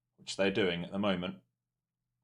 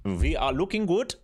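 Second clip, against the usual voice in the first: much higher and louder, triumphant; excited shout; 9 semitones higher, 8 dB louder than usual. Real, not acted. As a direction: belt it out, thrilled with the move. Trader celebrating market drop.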